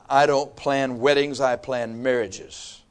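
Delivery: measured, slowing to a soft finish; calmly self-assured, easing down slowly. Retold or imitated. Father announcing his stance on the engagement, calm and slow. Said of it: "I very calmly said".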